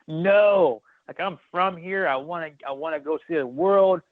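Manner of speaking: bursting with joy at the news; excited burst. Retold or imitated. Thrilled about Japan orders.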